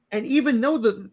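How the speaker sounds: very high-pitched hype man; squeaky, excited announcer selling a hero; Skeets. Acted. Sidekick hyping Booster Gold to the crowd, very high excited voice. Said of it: "I'm gonna be Skeets".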